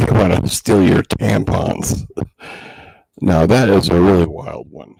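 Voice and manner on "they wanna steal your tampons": chuckling through the words; amused laugh while speaking. Real, not acted. Laughs at a wild claim.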